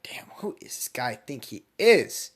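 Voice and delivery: slow, breathy whispered grumble; whispered aside of irritation; annoyed whisper. Acted. Annoyed cashier muttering about Naruto.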